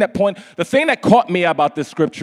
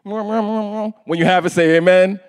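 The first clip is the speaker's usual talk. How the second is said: slow louder call for amen; 3 semitones higher, 3 dB louder, slower than usual. Real, not acted. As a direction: call out to the congregation. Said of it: "I can't speak through this mask".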